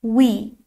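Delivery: وی with a rounded w; teacher modelling the w sound; w sound demo. Shown as a demonstration. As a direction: round the lips for وی. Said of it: "صدای ما وی هست".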